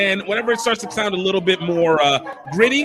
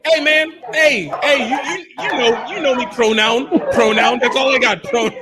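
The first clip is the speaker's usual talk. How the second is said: mock fan plea; 3 semitones higher than usual. Imitating a fan asking to connect.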